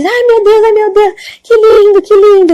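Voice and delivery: put-on high, delighted little old woman; joyful old lady. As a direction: gush with joy like a tiny elderly lady. Old woman thrilled before the angel. (velhinha encantada, voz bem aguda)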